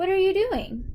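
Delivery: pitch climbs, rising tune on doing. Speaker modeling a practice sentence for listeners to repeat, with rising intonation. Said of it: "should have a rising intonation in them".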